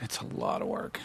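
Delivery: hushed, emphatic whisper; very soft, voiceless echo. Real, not acted. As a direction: whisper it like a weary confession. Echoes the remark in a whisper.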